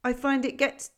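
loud, high, rambling goat voice; half-deaf goat scheming a plan; gruff old goat. A narrator's reading. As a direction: muse aloud with eager "yes, yes?". Goat voice held in long monologue.

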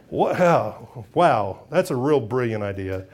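low, dry mock praise; sarcastic. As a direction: sneer at the idea, pitched low. Sarcastic grumbling fishermen.

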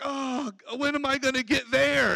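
mock impatient grumble; lightly acted complaining; grumbling complaint. Worker asking when promotion will come, grumbling. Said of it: "we're grumbling and complaining".

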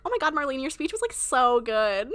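put-on gushing sorority girl voice; giddy party girl. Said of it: "that Vine where she's like".

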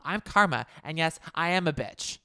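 a hint of sly imitation; mock Rinna tagline. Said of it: "Lisa Rinna's tagline".

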